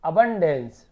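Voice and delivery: "अबंडेंस" with short a sounds, loud; pronunciation demo. Shown as a demonstration. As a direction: teach "अबंडेंस" firmly, opening on a short "अ". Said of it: "अबंडेंस उच्चारण होगा".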